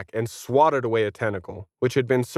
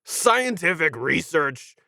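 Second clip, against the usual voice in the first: slow mocking echo of the question; mocking repeat; 2 semitones higher, slower than usual. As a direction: repeat it back with scorn. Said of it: "The monkey thinks they were doing science?".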